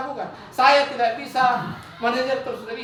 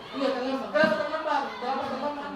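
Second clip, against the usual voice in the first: softer, easy-going questioning; friendly teacher; 3 semitones higher, 4 dB quieter than usual. Acted. Teacher as a friend asks a late pupil, soft and relaxed. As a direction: ask like a buddy, no pressure. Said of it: "Dia teman".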